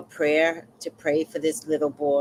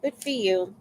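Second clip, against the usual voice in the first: high mock-impressed gushing; acted gushing, starting high; humoring a bragger; 8 semitones higher than usual. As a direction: play along with put-on admiration. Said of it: "don't wanna stop her from bragging".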